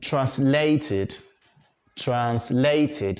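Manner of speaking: "translated" ending in a clear "tid"; correct -id ending. Shown as a demonstration. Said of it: "have to pronounce it as translated".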